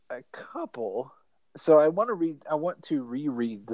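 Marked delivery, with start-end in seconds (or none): 0.1-1.1 whisper. Real, not acted. Sheepish admission.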